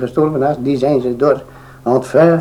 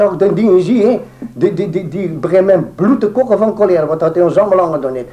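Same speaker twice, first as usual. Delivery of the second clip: angry woman quote; 6 semitones higher than usual. Retold or imitated. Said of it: "zegt ze".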